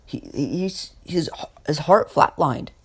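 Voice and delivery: lightly hammed bafflement, voice lifted; stunned disbelief. Nurses find flatlined patient awake, stunned.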